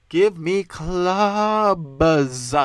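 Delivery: loud, hugely drawn-out wail; bellowed demand. Acted. Comic demanding clubs over bar open mics, bellowed. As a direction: bellow it very slowly, stretching CLUBS.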